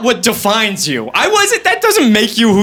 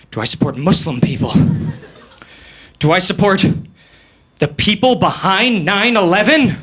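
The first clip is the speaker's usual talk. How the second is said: lightly voiced old woman losing her mind; a hint of muddled old-lady dithering; mock-bewildered elderly questioning; confused old conspiracy theorist. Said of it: "ninety-five-year-old conspiracy theorist just losing her mind".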